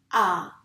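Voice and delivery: "a" alone, held and loud; isolated vowel sound. Shown as a demonstration. Teacher gives the second sound to pupils, sounded out. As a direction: sound out "a" as a single open vowel. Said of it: "On entend en effet le son".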